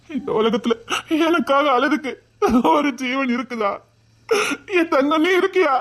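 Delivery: choked, teary laugh in the words; overwhelmed with joy and grief at once; laughing through tears. Acted. (சிரிப்பும் அழுகையுமாக)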